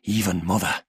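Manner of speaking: even, measured father confirming it; father's firm answer. A narrator's reading. Father tells his daughter, measured and firm. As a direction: confirm it as a grave statement.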